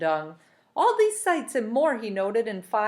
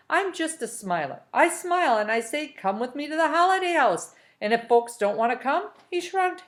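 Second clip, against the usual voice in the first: smooth-talking Rictus; 2 semitones higher than usual. Acted. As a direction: coax him along like a cheerful huckster. Rictus's long persuasive speech.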